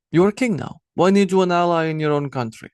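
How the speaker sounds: lauter, höher, ungläubig wiederholt; incredulous. Acted. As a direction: throw her words back at her in disbelief. Harold repeats question incredulously.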